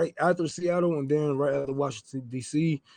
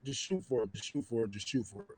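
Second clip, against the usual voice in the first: each repeat lower and much softer, dying away; fading repeat; 7 semitones lower, 13 dB quieter than usual. Real, not acted. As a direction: let the words trail off to almost nothing.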